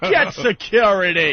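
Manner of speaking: drawn-out mocking yell. Host mocking a shock jock yelling for security, mock yell. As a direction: yell it slowly, in mockery. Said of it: "and he's yelling".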